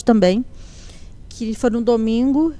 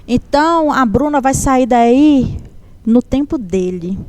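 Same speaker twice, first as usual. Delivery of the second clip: slow, deliberate relayed message from God; solemn prophecy; slower than usual. Retold or imitated. Church sister relays God's message to a mother, slow and solemn. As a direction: deliver it phrase by phrase, with weighty pauses.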